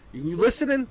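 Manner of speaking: high, loud demand for attention; stern challenge. Acted. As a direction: snap them to attention. Acted stern challenge to partner.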